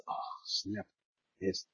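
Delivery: ordinary talk, nothing marked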